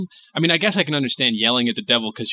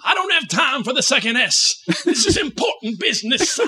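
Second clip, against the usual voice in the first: much higher, hammed-up self-important tone; pompous exorcist; 10 semitones higher than usual. Host voicing the exorcist's excuse, pompous. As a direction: insist like a busy preacher.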